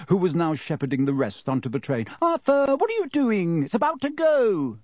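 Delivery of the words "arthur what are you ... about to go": high-pitched, harried wife calling; urgent calling out. A narrator's reading. Wife warning husband the train is leaving, urgent call. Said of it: "called Missus Weasley".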